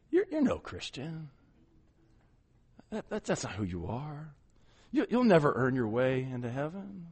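soft, low taunting voice in the ear; Satan whispering accusations. Retold or imitated. Satan murmuring accusations into a believer's ear, soft and taunting. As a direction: hiss doubts softly into their ear. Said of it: "He'll whisper those things in there".

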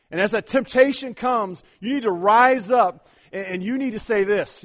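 rising exhortation. Acted. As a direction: build the call to stand. Preaching builds.

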